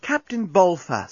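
slow, high, charming address. A narrator's reading. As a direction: coax him slowly in a high voice. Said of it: "in her most charming voice".

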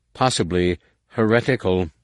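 weight pressed onto "heretical"; leaning on heretical. A narrator's reading. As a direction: linger and lean on "heretical" pointedly. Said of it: "Nomanor leaned on the word".

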